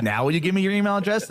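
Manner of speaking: high, fast, pushy demand; mock pushy pitch. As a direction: needle the reader for an email with a sly grin. Mocking pop-up sales pitch.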